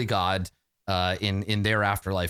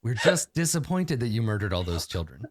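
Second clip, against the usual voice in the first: gently patronising parent voice; soothing disappointed parent; kind parental angel. Pretend. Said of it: "kind and parental".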